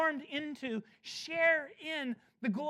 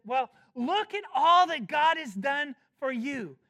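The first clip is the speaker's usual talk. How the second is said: mocking opponents; 4 dB louder than usual. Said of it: "some want to frame it this way".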